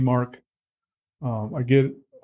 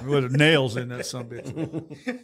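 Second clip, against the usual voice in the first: laughing; slower than usual. Real, not acted. Joking about the paddle.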